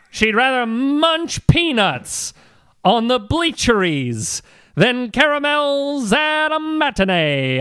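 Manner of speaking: put-on lightly old-timey radio announcer; a touch of vintage radio voice; 1950s narrator. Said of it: "you've got a good old-timey voice".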